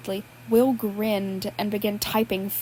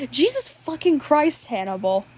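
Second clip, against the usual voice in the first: real disbelief, slowed right down; a reader's genuine stunned curse; shocked outburst; 3 semitones higher than usual. Real, not acted. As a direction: swear in honest shock at what you just read. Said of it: "all of my reactions were genuine".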